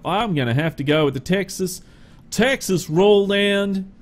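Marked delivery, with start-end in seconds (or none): 2.3-3.9 bad Texan accent. Truck reviewer picking a bumper in a badly faked Texan accent. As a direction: put on a really bad Texan twang. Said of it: "That's my really bad Texan accent".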